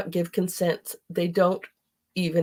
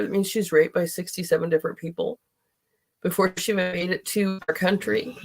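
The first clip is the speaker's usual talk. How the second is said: speaking through tears; 3 semitones higher than usual. Real, not acted. Upset over the trafficked children, speaking through tears. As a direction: push on while close to crying. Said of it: "I told you I was going to cry".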